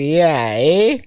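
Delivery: approving "yeah, eh?" lifting sharply at the end; acted-out reaction. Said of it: "and I was like".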